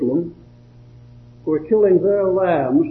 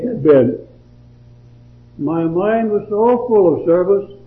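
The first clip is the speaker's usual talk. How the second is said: measured, earnest verse recitation; devotional poem reading. Acted. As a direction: read the poem aloud, pausing after each phrase.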